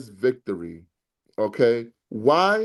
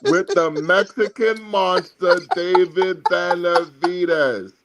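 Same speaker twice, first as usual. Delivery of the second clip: Canelo Alvarez impression; 2 semitones higher, slower than usual. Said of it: "what was he talking about".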